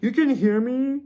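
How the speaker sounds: high, loud mock shock; shocked people. Reader acting out people amazed he hears ghosts, high loud shock. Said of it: "and everybody's like".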